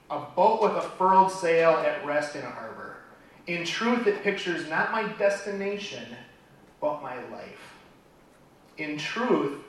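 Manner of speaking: measured, heartfelt poetry reading; poem recital. Acted. Speaker closes a talk with a favourite poem, recited. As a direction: recite it in phrases with pauses.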